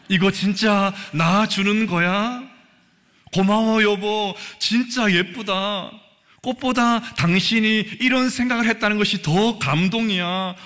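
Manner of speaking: a touched wife, lightly voiced; sweet grateful wife. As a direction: coo your thanks to a husband. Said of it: "이렇게 말하는 분은 아무도 없을 것입니다".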